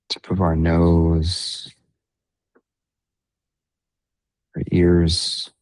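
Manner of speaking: unhurried meditation guide, long pauses between phrases; guided meditation. Real, not acted. Meditation leader guiding listeners into breath and body awareness, guided meditation. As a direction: ease them gently through the breathing, leaving space.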